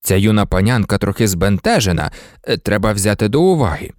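smooth things over mildly; low-pitched, conciliatory official; placating. Acted.

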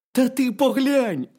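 high, loud hedgehog voice; hedgehog character. A narrator's reading. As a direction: urge the bear as a lively little hedgehog.

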